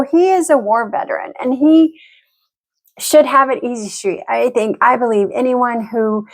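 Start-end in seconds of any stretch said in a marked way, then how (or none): 0.0-4.2 whispered aside. Real, not acted. Aside about husband.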